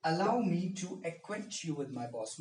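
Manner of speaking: slow and deliberate, every word spaced; slow model sentence. Shown as a demonstration. Teacher repeats the example sentence slowly for students. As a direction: spell it out word by word for learners. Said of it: "क्या कहा मैंने?".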